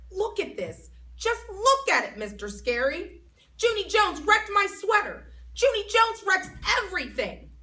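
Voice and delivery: high, loud tattling whine; whiny complaining girl. Acted. May tattling to Mister Scary, high and whiny. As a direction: whine it to the teacher.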